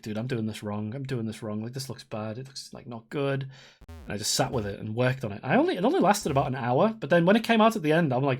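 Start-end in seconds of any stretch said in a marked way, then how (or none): 0.0-3.5 low, soft grumble to yourself; discouraged self-talk. Retold or imitated. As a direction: imitate doubting your own work under your voice. Retold discouraged self-talk while working.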